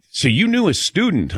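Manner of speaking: a hint of the confused wife; puzzled wife. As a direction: mimic his wife's puzzled question. Husband voices puzzled wife.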